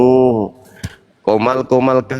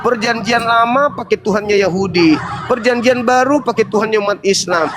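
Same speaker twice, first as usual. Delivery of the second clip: higher, laughing ridicule; mocking laughter; 5 semitones higher than usual. Real, not acted. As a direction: laugh while listing it. Ridiculing the other religion laughing.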